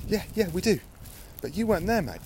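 cyclist's retort. Retold or imitated. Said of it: "The cyclist goes".

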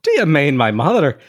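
acted threatening Irish retort; angry Irish challenge. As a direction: bristle in a caricature Irish brogue. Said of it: "he too looked angry and threatening".

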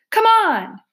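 high, urgent acted call; urging on. Badger urges his friends along the passage, high urgent call.

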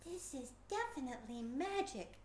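mild exclaim. Acted. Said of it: "exclaimed Alex".

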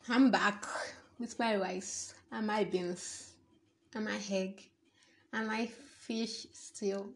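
hushed whisper over her plate; soft unvoiced aside to the camera. Real, not acted. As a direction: whisper it like a secret. Whispering, back with food.

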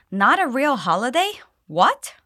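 rising, incredulous what at the end; shocked disbelief. Shown as a demonstration. Teacher modelling a sister who can't believe it, shocked. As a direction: sound genuinely shocked. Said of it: "she's so shocked".

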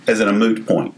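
"moot" said with a plain oo, like "boot"; word clarified. Shown as a demonstration. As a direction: say "moot" with no y sound. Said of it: "argument over the word moot".

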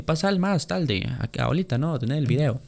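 slow mock Chinese accent. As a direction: drag it out like the shopkeeper, mock accent. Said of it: "ofendido con mi imitación".

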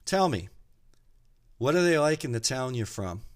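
loud, high call back; yelling back. Acted. Old man on the veranda yelling back at the driver. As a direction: call it back across the yard. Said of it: "the old guy yells back".

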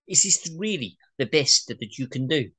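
ordinary talk

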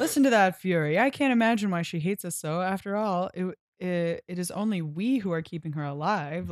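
lightly voiced smug captor, amused; a hint of a gloating villain. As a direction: purr it with a laugh. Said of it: "captor voiced".

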